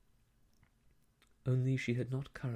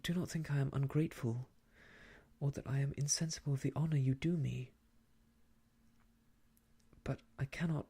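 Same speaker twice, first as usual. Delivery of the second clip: quick, urgent pleading; almost passionately. Acted. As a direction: rush the plea, almost passionate. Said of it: "almost passionately".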